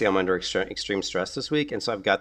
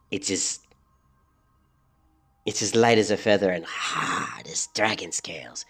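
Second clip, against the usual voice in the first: whispered quote. Retold or imitated. Quoting game NPC line.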